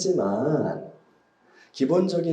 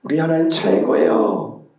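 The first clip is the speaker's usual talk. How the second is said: praising; 3 semitones higher, 5 dB louder than usual. Retold or imitated. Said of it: "막 찬양하고".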